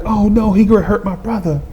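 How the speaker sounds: high, worried kid's mock cry; imitated crying. Byron fearing for his brother, high mock crying. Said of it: "Byron started crying".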